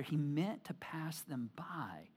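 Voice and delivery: hushed, breathy whisper of the verse. Shown as a demonstration. Pastor whispering the verse to the congregation. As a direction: let the line drop to a whisper. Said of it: "whispered scripture phrase again".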